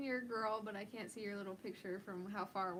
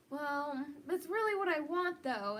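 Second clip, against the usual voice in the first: stubborn whine; 3 semitones higher, 4 dB louder than usual. Retold or imitated. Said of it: "to be stubborn and be like".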